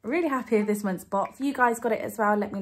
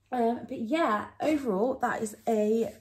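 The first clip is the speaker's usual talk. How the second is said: playful broad Northern English twang, pitched higher; broad Northern accent; 4 semitones higher than usual. Pretend. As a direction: slip into a jokey Northern English accent on "chuffing lovely". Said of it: "don't know where that accent came from".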